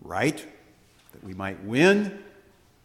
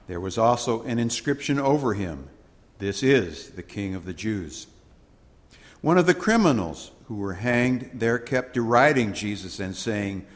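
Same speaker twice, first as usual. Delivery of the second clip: measured, ceremonial scripture read; solemn Gospel reading; 3 dB louder than usual. Acted. Priest reading the Gospel aloud to the congregation, solemn.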